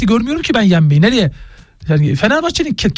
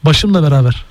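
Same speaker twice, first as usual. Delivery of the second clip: waiter's catchphrase; 6 semitones lower than usual. Retold or imitated. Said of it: "Sinirden gülüyorsun bence".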